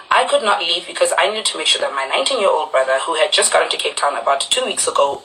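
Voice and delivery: usual speaking voice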